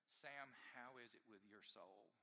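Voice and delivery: soft, slow and searching; a quiet pastoral question to himself; gentle question. Retold or imitated. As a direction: ask it gently, slowly. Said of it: "asking this question".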